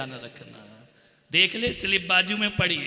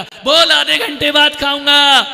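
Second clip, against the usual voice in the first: higher, loud retort; irritated father; 7 semitones higher, 16 dB louder than usual. Retold or imitated. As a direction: bark the reply. Father sends message back.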